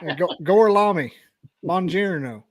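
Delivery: a hint of a bad Italian accent, Tennessee drawl underneath; Brad Pitt's Italian. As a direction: lightly mimic the Pitt movie Italian. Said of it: "Brad Pitt's Italian from Inglourious Basterds".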